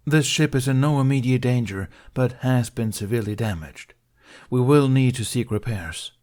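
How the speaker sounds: Jedi addressing a crowd. Acted. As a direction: speak up to fill a cargo bay.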